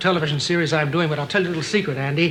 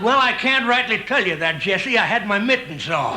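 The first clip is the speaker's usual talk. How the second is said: a hint of a grizzled ranch hand; old Western cowboy; 3 semitones higher than usual. Old cowboy reminiscing to his pal.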